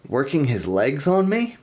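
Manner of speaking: slow, puzzled "Working his legs on me?" with a rising end; baffled rising reread; incredulous question. Real, not acted. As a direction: repeat it back in disbelief. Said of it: "Why would you word it like that?".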